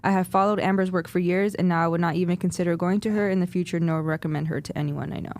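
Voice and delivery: reading aloud. Real, not acted. Continues reading the review.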